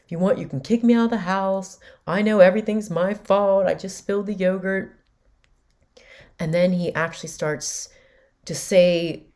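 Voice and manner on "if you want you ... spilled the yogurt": higher, louder martyr act; dramatic self-pity. Retold or imitated. Son throwing a dramatic fit over spilled yogurt, higher pitched. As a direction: overplay the blame on yourself. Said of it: "he was just getting very dramatic".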